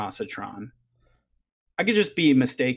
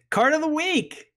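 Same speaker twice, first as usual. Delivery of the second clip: announcer voice; 14 semitones higher than usual. Acted. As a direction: belt out the segment title. Segment jingle intro.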